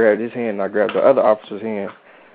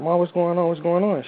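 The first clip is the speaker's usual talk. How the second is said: mildly alarmed, pitched higher; retold alarmed question; 8 semitones higher than usual. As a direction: re-enact an anxious repeated question. Retold panicked question to mom.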